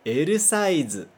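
"L size" as eru saizu; Japanese L size. Shown as a demonstration. Teacher modelling "L size" for students to repeat. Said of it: "Mais uma vez".

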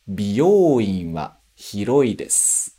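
"Byouin" slow, long o; teacher reads slowly, syllables clear; Japanese sentence drill. Shown as a demonstration. Teacher reading drill sentence slowly. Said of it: "pronúncia de palavra".

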